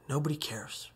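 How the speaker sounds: soft, retold mutter. Man muttering to himself at the rail, softly. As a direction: repeat it softly, as if to yourself. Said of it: "I muttered".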